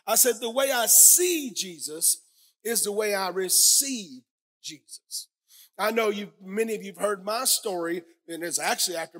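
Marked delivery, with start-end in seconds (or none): 0.4-5.3 slow, with SEE and RECEIVE drawn out; emphatic repetition. Real, not acted. Preacher repeating his key point to the congregation, emphatic. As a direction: lean hard on "see" and "receive", drop away on "Jesus".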